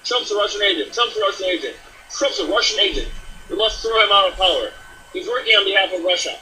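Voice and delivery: mock accusing. Host mimicking a congressman leading the charge, mock accusing.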